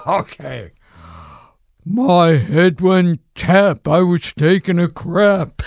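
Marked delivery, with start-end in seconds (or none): 1.8-5.6 George Burns voice. Retold or imitated. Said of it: "he would make up songs".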